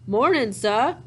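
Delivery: "Mornin', sah" in a light Southern drawl; Southern accent. Acted. Old stranger grinning down at Peter, light Southern accent. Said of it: "like, a Southern accent".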